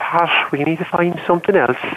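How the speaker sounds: put-on Irish accent. Recalling his mother calling to him by his nickname, in her sweet Irish voice. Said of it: "my mom's sweet Irish voice going".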